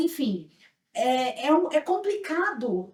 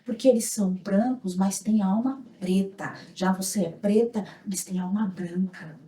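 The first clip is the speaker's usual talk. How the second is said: imitated consoling; 5 semitones lower than usual. Canteen owner consoling an attacked girl, imitated soothing tone. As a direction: lower the voice to comfort a child. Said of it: "Aí ela falou assim pra mim".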